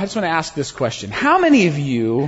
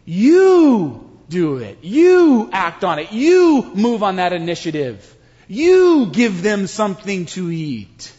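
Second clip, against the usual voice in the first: a hint of God urging them to act; God's voice. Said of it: "God is just sitting there saying".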